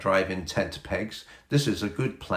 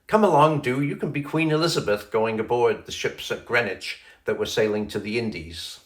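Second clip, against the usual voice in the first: put-on a touch of a girl's eager excitement; eager child; 3 semitones higher than usual. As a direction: coax Mother aboard with delight. Titty eagerly invites Mother.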